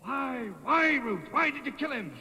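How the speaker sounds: high, pleading questions; stunned, begging to understand; anguished disbelief. Acted. Man asks his beloved why she killed, high and pleading. Danny stunned by her confession.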